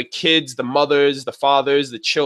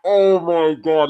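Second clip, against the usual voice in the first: slow, drawn-out reaction; re-enacted dying-of-laughter amazement; retold amused disbelief; 3 semitones higher, much slower than usual. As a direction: stretch every word in mock astonishment. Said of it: "I was just dying".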